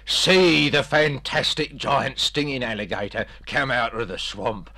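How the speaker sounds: over-the-top movie trailer voice; hyped trailer pitch. Acted. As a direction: sell it like a cinema trailer. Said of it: "Try and tell people".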